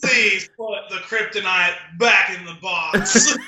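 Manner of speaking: slow, hammy Southern drawl impression, laughing; a bad imitation of Nick Cage's Southern accent. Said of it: "My very bad impression of his very bad impression of a Southern accent".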